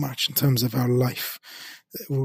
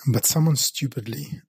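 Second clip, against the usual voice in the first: sheepish whispered aside; much slower than usual. Real, not acted. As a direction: drop to a whisper for the naughty word. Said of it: "the word stupid is a bad word here".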